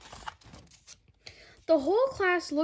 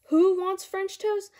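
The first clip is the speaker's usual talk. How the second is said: cheery mom calling; 6 semitones higher, 6 dB louder than usual. Acted. Mom calls the kids.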